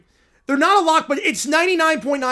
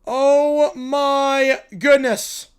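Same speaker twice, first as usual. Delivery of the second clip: awed; 4 dB louder, much slower than usual. Real, not acted. Awed reaction to the game.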